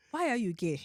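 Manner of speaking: imitated African interviewer; African accent. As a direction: quote the clip in an African accent. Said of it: "all I hear is".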